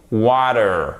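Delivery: American "water", T almost a D. Shown as a demonstration. Teacher explaining American English, "water" with D-like T. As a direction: say "water" as "wah-der". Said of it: "il est prononcé presque comme un D".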